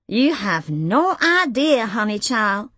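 slow, drawn-out sassy colleague voice; brassy V. Acted. Brash reporter V teasing the new girl, sassy. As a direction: tease the newcomer with a worldly drawl.

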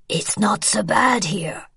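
slow, breathless whisper. Acted. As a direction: whisper it close, slowly. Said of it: "Tori whispered beside her".

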